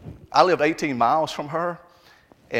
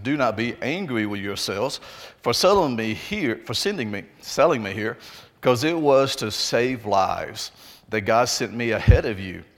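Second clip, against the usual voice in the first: measured, deliberate Bible reading aloud; scripture reading; 2 semitones lower than usual. Acted. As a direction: read the passage out with weighted key words and pauses. Reads scripture aloud to congregation.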